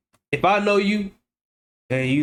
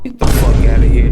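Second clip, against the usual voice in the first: much louder, lower dismissive yell; loud scoff; 5 semitones lower, 11 dB louder than usual. Real, not acted. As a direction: blast it out, not buying it. Scoffing at fake police knock.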